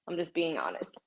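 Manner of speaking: soft confessing whisper; whispered aside. Real, not acted. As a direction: breathe it like a secret. Confessing aside after cardio.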